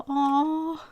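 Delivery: high tender aww; tender aww at the cats' story. Real, not acted. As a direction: melt a little. Reacting to cat story.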